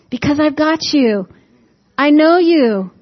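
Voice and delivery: pleading like a caring Father; preacher voicing God begging them to stop worrying; God reassuring. Voicing God's reassurance to listeners.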